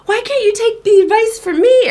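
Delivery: high, loud mock-indignant demand; retold heated, offended challenge; imitating argument. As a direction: act out the therapist yelling. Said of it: "we ended up having an argument".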